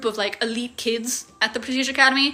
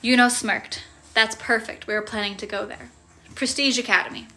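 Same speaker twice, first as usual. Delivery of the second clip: story narration. A narrator's reading. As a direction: read it like a novel chapter. Reads the novel aloud.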